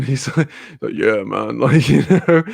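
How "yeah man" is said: lightly voiced American accent. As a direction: slightly lower American impression. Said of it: "'cause he's American".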